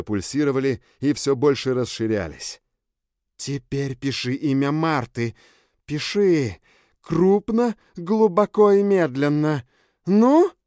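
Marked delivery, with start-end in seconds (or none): 3.4-10.5 high, loud, slow commands; commanding Bella. Acted. Bella orders him to carve the next name, loud. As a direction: press him harder with every word.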